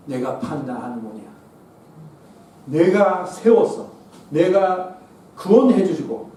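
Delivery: voice of Jesus rebuking. Retold or imitated. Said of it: "예수님이 저한테 말씀해 주셨어요".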